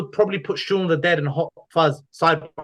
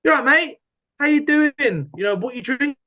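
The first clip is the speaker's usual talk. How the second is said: chirpy pub greeting from a stranger; friendly local; 10 semitones higher than usual. Retold or imitated. Friendly Scottish locals greeting the newcomer, chirpy imitation.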